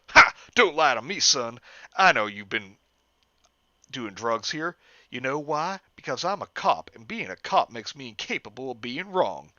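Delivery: a hint of a cocky hick cop; smug cop who can't be wrong. Officer mocks Jeff with a light hick voice.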